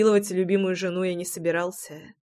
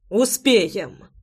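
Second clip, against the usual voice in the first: barked. Acted. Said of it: "рявкнул я так".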